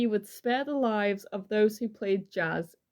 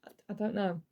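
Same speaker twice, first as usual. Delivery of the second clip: whispered; 5 dB quieter, faster than usual. Real, not acted. Whispered aside in true crime chat.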